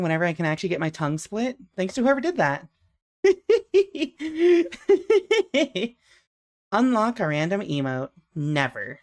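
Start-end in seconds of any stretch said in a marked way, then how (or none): 3.2-5.9 loud high-pitched laughter. Real, not acted. Laughs after tongue split joke.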